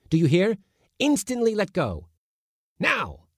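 very high, exasperated scolding. A narrator's reading. Uncle scolding the kitten to look at the mouse, high. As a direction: berate the cowardly kitten.

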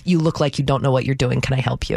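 sneering clerk voice, imitated; condescending, mimicked. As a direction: talk down to a confused customer. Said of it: "when it's dripping with".

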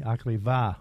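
"akriva" said the Greek way, stress on the second syllable; Greek word. Shown as a demonstration. Greek host tells his co-host about pricey weddings, saying "akriva" in Greek. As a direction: say "akriva" like a Greek at home would. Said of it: "as we say".

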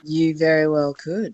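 a hint of a bad guy judge. Guest judge playing critic for the radio hosts, mild bad guy voice. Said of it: "that was a great bad guy voice".

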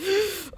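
sharp, high mock gasp of a shocked crowd. Shown as a demonstration. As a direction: suck in air like a stunned crowd. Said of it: "replicate the noise that the crowd made".

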